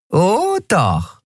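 high tiny creature voice, gloating; little winged Nelen gloating over Miko; nasty grin. Acted. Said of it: "Nelen grinste fies".

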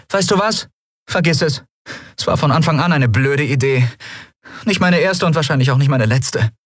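high, exasperated character voice; fed-up heroine backing out; Endriel giving up. Acted. Endriel gives up on asking.

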